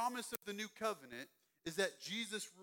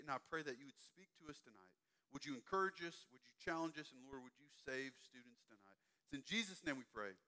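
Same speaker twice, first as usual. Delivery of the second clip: prayer. Acted. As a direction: pray gently over the students. Youth pastor prays.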